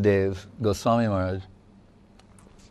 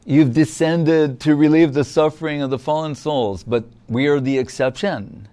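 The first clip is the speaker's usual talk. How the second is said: teasing, playful; 3 semitones higher than usual. Retold or imitated. Gopis teasing Krishna about the fallen souls, mild playful tease. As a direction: tease him playfully, mildly. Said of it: "So in a teasing, playful, almost playful way".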